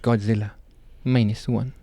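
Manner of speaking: attempted Japanese accent. Shown as a demonstration. Podcaster showing friends how they like saying the title, attempted Japanese accent. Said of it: "I just tried doing it in an accent".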